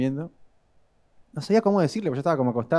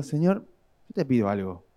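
whiny prayer; 7 semitones higher than usual. Retold or imitated. Husband praying in the living room after a fight, in a whiny high complaint. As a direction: complain to God like a wronged husband. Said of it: "Y digo".

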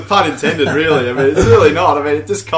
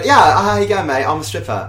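lightly put-on English accent; imitated English accent. Stripper introducing herself, lightly imitated English accent. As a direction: mimic her casual English accent. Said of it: "'Cause she had an English accent".

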